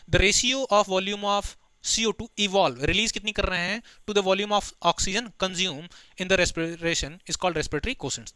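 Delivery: slow, deliberate dictation pace; slow textbook recitation; reading the textbook aloud. Acted. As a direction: dictate each word to the class. Reads definition aloud.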